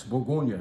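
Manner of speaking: Bourgogne said the French way, boor-GOHN-yuh; French pronunciation. Shown as a demonstration. Naming the wine region for customers, Bourgogne said in French. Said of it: "if you want to say it the French way".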